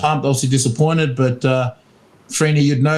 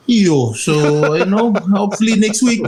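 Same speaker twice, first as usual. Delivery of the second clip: toned-down voice demo; 5 semitones higher than usual. Shown as a demonstration. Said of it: "I might have to tone it down".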